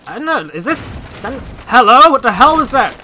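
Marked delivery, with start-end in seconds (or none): 1.7-2.1 startled hello. Real, not acted. Startled call after a noise. 2.1-2.9 startled. Real, not acted. Jump-scared by enemies in game.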